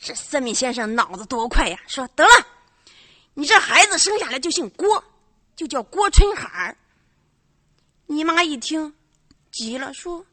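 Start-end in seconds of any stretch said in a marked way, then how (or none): 2.2-6.8 loud, knowing pronouncement, higher; fortune teller. Acted. Fortune teller announces the baby's name to the mother, loud and smug.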